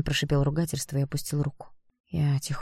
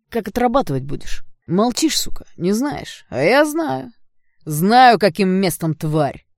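higher, louder vicious threat; menacing rage; 5 semitones higher, 6 dB louder, slower than usual. Acted. Blond threatens the girl who ruined his sneakers, loud and vicious. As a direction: lash out to terrify her.

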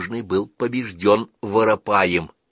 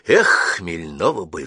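sighing; 2 semitones lower, 3 dB louder, slower than usual. Acted. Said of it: "вздохнул".

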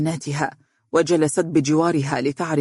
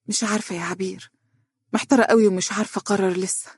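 absent-minded; 4 semitones higher, faster than usual. Acted. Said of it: "قالت عزة بشرود".

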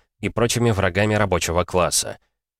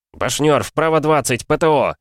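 loud, high urgent orders; shouted fire commands; 7 semitones higher, 4 dB louder than usual. Acted. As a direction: yell the orders over the cannon. Commander calls target to gunner.

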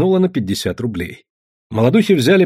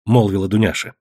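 plain reading voice

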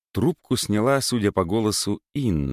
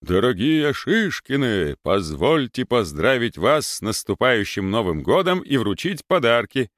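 Father Christmas bass; 4 semitones higher than usual. Acted. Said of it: "притворным Дед Морозным басом закричал".

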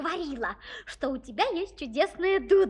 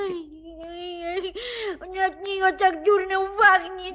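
disgusted whimpers; 3 dB louder, slower than usual. Acted. Princess disgusted by pipe.

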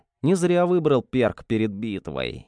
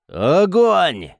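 loud high battle cry; shouted order; 6 semitones higher, 6 dB louder than usual. Acted. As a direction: yell the command to fire. Esteban orders fire at monster.

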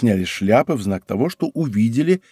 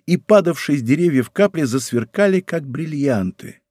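plain reading voice

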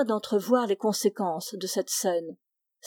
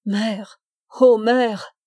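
a mild crying call of "Mère", the second "Ô mère" much louder; sobbing cry; 6 dB louder, much slower than usual. Acted. Lonely son on his knees calls after his mother, mild sobbing cry. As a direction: plead for his mother through a held-back sob. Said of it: "Il cria dans un sanglots".

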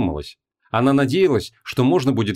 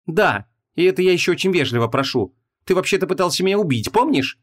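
rising higher toward помнишь; indignant retort; 7 semitones higher than usual. A narrator's reading. Vanessa reminds the demon he tried to kill her, indignant. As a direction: hit back with sarcasm.

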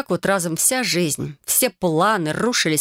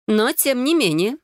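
спокойная настойчивость; 6 semitones higher, slower than usual. Acted. Целительница спокойно настаивает.

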